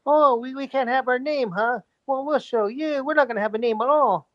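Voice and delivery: petty, mocking take-our-ball-home tone; mocking the team. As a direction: sneer it like a sulky team owner. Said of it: "just mocking the fact that".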